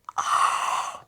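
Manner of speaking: airy, voiceless gasp; amazed gasp. Real, not acted. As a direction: gasp in disbelief at a surprise. Amazed at more gifts.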